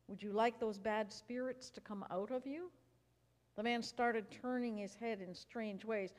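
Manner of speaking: reading a Bible story to the congregation; lively storybook reading for a family service; story narration. A narrator's reading. Pastor reads a children's story Bible aloud, lively storytelling.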